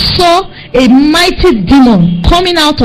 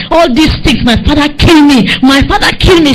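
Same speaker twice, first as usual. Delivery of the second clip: higher-pitched, insistent accusation; very angry; 4 semitones higher than usual. Retold or imitated. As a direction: act out a friend blaming his father. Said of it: "he was very angry".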